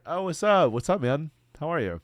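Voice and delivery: loud, high, hearty hello; upbeat greeting. Shown as a demonstration. Streamer demos a loud, friendly hello to a girl. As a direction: greet her like an old buddy. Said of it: "You walk up to her".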